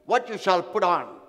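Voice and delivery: slow, measured Bible reading; scripture reading. Acted. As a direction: read the verse slowly and solemnly. Preacher reading scripture slowly.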